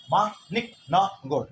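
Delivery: মা নিক ন গর with quick, distinct beats; syllable by syllable. Shown as a demonstration. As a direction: tap out the four beats of মানিকনগর. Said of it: "আমি যত দ্রুতই উচ্চারণ করি". (মা নিক ন গর, চার ঝোঁকে)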